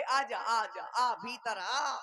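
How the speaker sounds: wife mock-tenderly calls the late husband inside, slowly; mock loving. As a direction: coax him inside with fake tenderness. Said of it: "बड़े प्यार से कहे".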